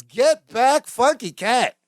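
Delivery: high-pitched, excited catchphrase; excited Balki. Retold or imitated. Balki excited to meet the psychic, excited exclamation. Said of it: "Balki's excited".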